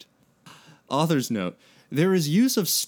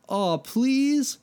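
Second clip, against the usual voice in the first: pleading whine; 14 semitones higher than usual. A narrator's reading. Mike begging.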